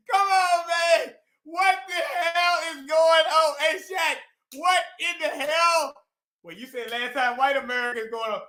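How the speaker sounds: indignant, incredulous protest; exasperated rant. Real, not acted. Panelist asking what is going on with this bullshit, ranting. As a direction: push it out like a fed-up complaint. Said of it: "Forget the rant".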